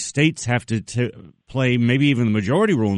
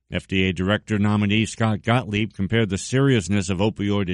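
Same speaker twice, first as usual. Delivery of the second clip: measured, even newsreader delivery; news intro read. Real, not acted. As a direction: read the scripted introduction fluently, like a news presenter. Presenter reads scripted interview introduction.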